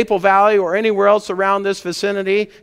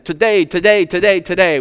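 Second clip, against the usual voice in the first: louder, hammering each today; emphatic repetition; 5 dB louder than usual. Real, not acted. Pastor urging the congregation to act now, louder and emphatic. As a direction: drive the word home, one today after another. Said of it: "What is God's favorite day?".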